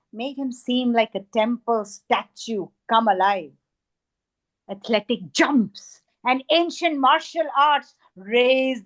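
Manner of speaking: dramatic, emphatic verse reading; poetry recitation. Acted. Poet reads a poem about a Kathakali dancer, dramatic recitation. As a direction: recite the story with weight on vivid words.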